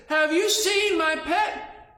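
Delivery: loud, high, slow giant question; hammed-up, drawn-out call; giant's shout. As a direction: boom it out like a storybook giant. Giant calls to squirrel.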